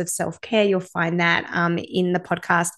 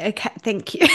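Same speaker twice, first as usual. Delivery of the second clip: holding back tears; 4 semitones higher, 3 dB louder than usual. Real, not acted. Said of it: "I'm trying not to cry".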